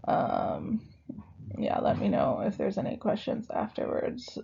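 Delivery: hoarse, fading voice; losing voice. Real, not acted. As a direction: talk through a failing voice. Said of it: "obviously, I'm losing my voice".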